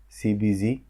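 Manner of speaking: सीबीजी spoken as "see bee zee", ending in the American zee; सीबीजी read letter by letter, last letter zee; saying the letters. Shown as a demonstration. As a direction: say सीबीजी with a zee at the end, not zed. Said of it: "सीबीजी पढ़ते हैं".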